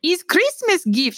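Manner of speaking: put-on high, slow, foreign-sounding old lady; high, slow old woman's voice offering a gift; old immigrant lady. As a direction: voice the little old lady gently.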